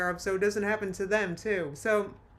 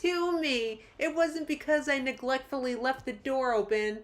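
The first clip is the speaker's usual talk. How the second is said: mock self-pity, higher at first then easing off; mocking imitation; 3 semitones higher than usual. Reactor parodying a pet owner's excuses, mildly mocking. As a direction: parody someone making excuses for themselves.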